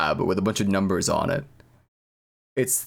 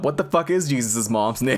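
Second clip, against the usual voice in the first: laughing; 3 semitones higher than usual. Real, not acted. Confused question, laughs mid-line.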